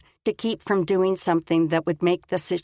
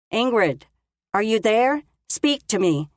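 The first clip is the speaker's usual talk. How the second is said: worried call from above; 4 semitones higher, 3 dB louder than usual. Acted. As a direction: call down, asking for an answer. Micah calling down cliff.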